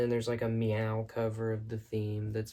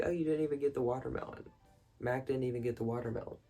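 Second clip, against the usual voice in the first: fast, raised-pitch realization; quoted Fantasy; 2 semitones higher, much faster than usual. Retold or imitated. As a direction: rattle it off in sudden discovery. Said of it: "she's like".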